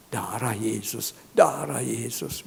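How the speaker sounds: slow, drawn-out repeated invocation; mother's invocation. Retold or imitated. Mother praying beside her sick son, slow invocation. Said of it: "Mamanya di samping".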